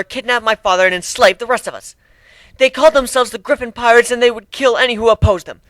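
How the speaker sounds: crying. Acted. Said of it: "Nadine was crying".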